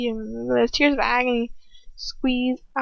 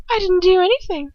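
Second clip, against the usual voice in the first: mock innocent whisper; 8 semitones higher, 5 dB louder than usual. A narrator's reading. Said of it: "she whispers".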